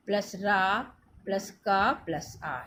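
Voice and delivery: slowly sounding each letter apart; slow spelling out. Shown as a demonstration. Teacher showing students how ट्र is built, slowly. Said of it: "और इसमें र कैसे लगाते हैं?".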